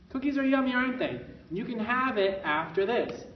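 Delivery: bright, upbeat yes-for-later; pleasant parent voice. Shown as a demonstration. Parent to toddler, pleasant and upbeat. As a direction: say it sweetly, as a kind parent. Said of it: "in a very pleasant way".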